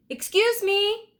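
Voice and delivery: high, loud call to get attention; shout. Acted. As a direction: call out to the blacksmith, slowly. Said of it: "Jack shouted".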